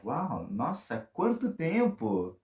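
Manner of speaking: slow, soft wow then quanto tempo jumping high; amazed. Shown as a demonstration. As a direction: sound floored by the years. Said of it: "it's kind of opening".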